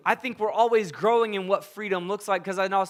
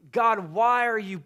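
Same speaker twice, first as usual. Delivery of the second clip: retold frustrated questioning, voice a bit raised; imitating exasperated demands for an answer; mad at God; 2 semitones higher than usual. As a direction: act out a mad, stumbling complaint to God. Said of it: "I'm so frustrated at God, going".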